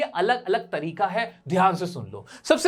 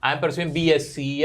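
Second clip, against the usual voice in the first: "I am pursuing graduation" spoken very slowly and deliberately; slow careful model; 4 semitones lower, much slower than usual. Shown as a demonstration. Teacher models what students should say about their course. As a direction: spell it out slowly for learners. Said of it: "तो वो डाल दोगे".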